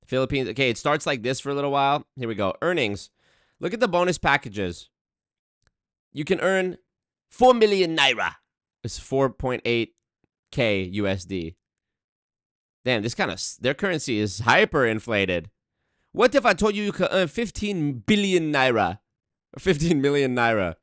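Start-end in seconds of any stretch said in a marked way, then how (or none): 3.6-8.4 mock Nigerian accent. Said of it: "in the Nigerian voice the whole time". 16.1-20.8 mock Nigerian accent. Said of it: "in the Nigerian voice".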